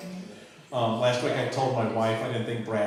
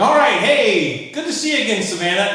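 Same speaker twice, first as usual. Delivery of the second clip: fake familiar greeting; 7 semitones higher, 7 dB louder than usual. Mock-fond greeting to a regular.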